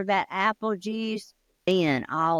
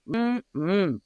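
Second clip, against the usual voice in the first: savoring mm-mm. Shown as a demonstration.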